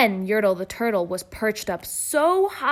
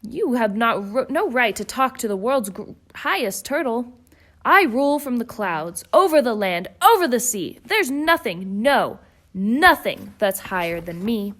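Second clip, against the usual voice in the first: angry king; 3 dB louder than usual. Acted. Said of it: "howled the mighty King Turtle".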